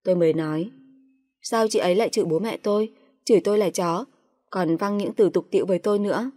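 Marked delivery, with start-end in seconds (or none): 1.4-6.3 indignant complaint. Acted. Wife confronts husband about his sister's insults, indignant. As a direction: demand an answer from him.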